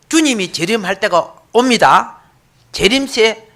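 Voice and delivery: normal talking voice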